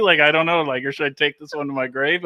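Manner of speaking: laughing through a private dilemma; chuckling as he asks himself; laughing inner monologue. Retold or imitated. Narrator laughing as he asks himself whether to confess. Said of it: "And I'm like".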